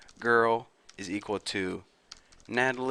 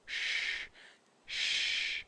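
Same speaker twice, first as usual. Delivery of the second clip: hushed mock-meditation whisper; 3 semitones lower, 8 dB quieter, much slower than usual. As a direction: whisper it like a secret. Mock meditation opening, hushing.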